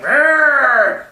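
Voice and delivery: loud, high Wookiee growl; loud mock Wookiee roar. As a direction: roar it like a furry giant. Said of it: "she's like".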